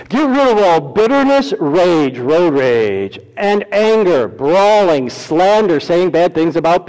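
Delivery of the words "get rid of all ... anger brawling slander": impassioned sermon; fervent preaching. Acted. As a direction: declare it with force.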